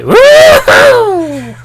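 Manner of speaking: high excited woohoo, shouted with a laugh; imitating Dad Cube woohoo. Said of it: "Doesn't he do that noise where it's like".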